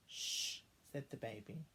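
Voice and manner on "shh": soft unvoiced hush; whispered shush. Baby hushing so sleeping Daddy is not woken. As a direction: breathe the shush out softly.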